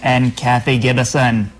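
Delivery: mock British announcer of names; British accent in the style of a musician. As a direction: finish the list in a put-on British accent. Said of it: "in a British accent as a musician would".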